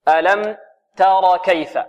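slow تر with a plain open "a" on the light "t"; neither darken nor tilt the vowel of تر; medium fatha. Shown as a demonstration. Teacher models medium fatha for pupils, open "a" in تر. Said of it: "فتح متوسط".

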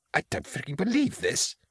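very high, soft whine; whining. A narrator's reading. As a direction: whine in disbelief, pitched right up. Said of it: "Karl whined".

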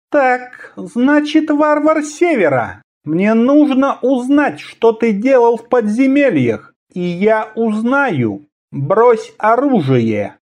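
high, slow, cold assassin voice; high ringing voice. Acted. Assassin's voice held.

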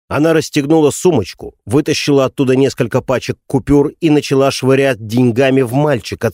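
usual speaking voice

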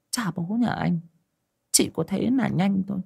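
high, playful scolding mother; mother poking her son's head in jest; teasing mother. Acted. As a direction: tease the son with a mock scold, pitched high.

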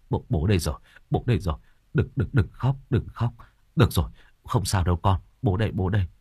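lightly voiced father calming his son; tender comforting. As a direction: soothe the child, gently.

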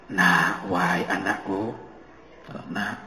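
rising to a strong, kind, resounding exhortation; a father urging his son, loud but never harsh; loud but not harsh. Shown as a demonstration. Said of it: "ini suaranya lantang, tapi tidak kasar".

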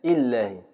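إلهي said as ilːahi with the ya elided; ya dropped. Shown as a demonstration. Teacher demonstrating the third dialect form. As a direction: run إلهي together, no ya before the lam. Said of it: "إسقاط الياء بالكلية".

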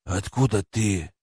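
slow, stunned disbelief; asked in shock; stunned question. Acted. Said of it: "он ошарашенно спросил".

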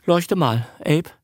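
high-pitched fretful pleading; whining Lee. A narrator's reading. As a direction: plead anxiously, in a small whine. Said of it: "jammerte Fräulein Lee".

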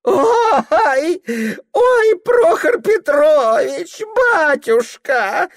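put-on high, thin, slow baby talk; father mockingly lisps to his son. A narrator's reading. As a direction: coo it to mock the boy. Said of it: "издевательски засюсюкал тоненько".

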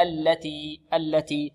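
slow "التي" with neither an overdone L nor a widened vowel; correct lam. Shown as a demonstration. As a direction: model "التي" slowly and evenly, L kept controlled. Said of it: "ولا تشدد اللام ولا تفتح". (نطق "التي" ببطء دون مبالغة في اللام)

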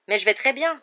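insist, jumping up; protesting. Acted. Harry protesting to the teachers, loudly. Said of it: "protesta Harry".

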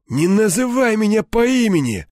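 high, strained rebuke; displeased rasp. A narrator's reading. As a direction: rasp out your annoyance, pitch pushed up. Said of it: "прохрипел тот недовольно". (недовольно прохрипеть)

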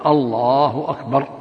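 "الله أكبر" said slowly, the lam of "الله" held and the ba of "أكبر" kept short; correct takbir. Shown as a demonstration. Sheikh demonstrates the correct takbir to the caller, measured. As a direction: show the right way, no wrong stretching. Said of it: "الواجب على المؤذن والمقيم أن يقول".

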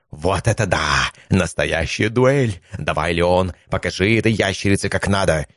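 a thrilled god cheering his champion on; ecstatic god. Acted. God Veragon cheers Leon in the duel, ecstatic. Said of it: "восторженный вопль Верагона".

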